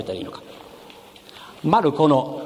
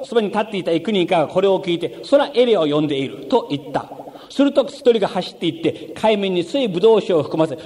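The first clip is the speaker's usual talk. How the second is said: scripture reading; 3 semitones higher than usual. Acted. Reads Mark aloud in sermon.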